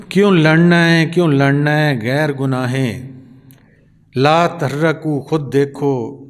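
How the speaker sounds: slow, drawn-out verse in even cadence; Sufi poem recitation. Acted. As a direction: recite slowly, stretching each line's close. (ਹੌਲੀ, ਲੈਅ ਵਿੱਚ ਸੂਫ਼ੀ ਕਲਾਮ ਦਾ ਪਾਠ)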